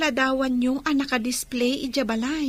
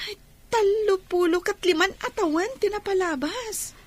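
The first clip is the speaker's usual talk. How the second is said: tearful; 4 semitones higher than usual. Acted. Emotional recounting of lost years.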